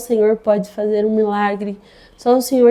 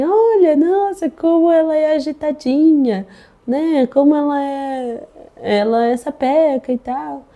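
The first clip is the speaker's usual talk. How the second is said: put-on raised, slower doctor's voice, amused at the lively baby; imitating the doctor; 4 semitones higher than usual. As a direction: play the doctor, pitched up, gently surprised. Médica comenta o bebê agitado. (a médica admirada com a bebê agitada, voz aguda e mais lenta)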